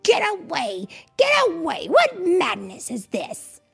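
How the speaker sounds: high-pitched villain in acted panic; panicked cry. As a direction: frantically fend them off, voice leaping up. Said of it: "he cried".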